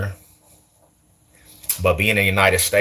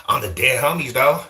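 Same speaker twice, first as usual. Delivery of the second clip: exaggerated Cali gang accent, pitched up; mock Cali gang talk; 4 semitones higher than usual. Shown as a demonstration. Streamer denying a Cali accent to viewers, mock Cali gang talk. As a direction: put on a hammed-up Cali homie accent. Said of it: "you don't hear me saying".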